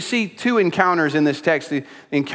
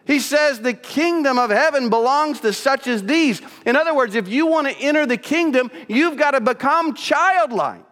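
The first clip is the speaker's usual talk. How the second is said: high, impassioned pulpit voice held through; preaching at full force; 8 semitones higher than usual. Acted. Pastor urging the church to become childlike, impassioned preaching. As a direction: lift the room with mounting fervor. Preacher describes indignant Jesus, builds.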